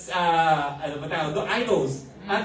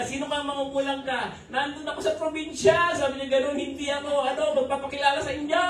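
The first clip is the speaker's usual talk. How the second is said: duwende voice; 7 semitones higher, faster than usual. Retold or imitated. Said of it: "iba yung boses, parang ano, parang duwende".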